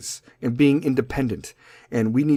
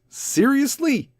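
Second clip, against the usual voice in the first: much higher, very slow disbelieving seriously; incredulous; 12 semitones higher, much slower than usual. Real, not acted. Comic rants about Kylie Jenner's fortune, slow and high in disbelief. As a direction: drag it out in disbelief. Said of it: "incredulous at Kylie Jenner".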